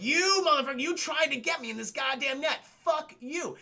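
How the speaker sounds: hammed-up furious snake; mock angry snake. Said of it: "the snake's like".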